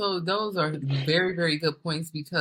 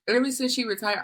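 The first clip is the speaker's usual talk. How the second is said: laughing; 6 semitones higher than usual. Real, not acted. Employee laughing as she recalls the micromanager retiring, laughing. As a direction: restart with a laugh, a bit higher. Restarts line, laughing second time.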